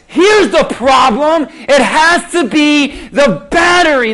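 mock angry declaration. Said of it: "I got mad at the battery".

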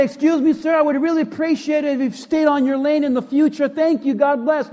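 fast, over-polite request; mock politeness. Driver addressing the one who cut in, mock-polite. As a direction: rattle off an absurdly courteous request. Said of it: "You don't say".

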